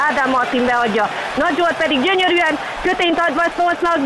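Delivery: calm match call building to high excited goal calls; excited hungarian sports commentary. Pretend. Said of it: "Tiéd lesz a tévé". (izgatott magyar sportkommentár)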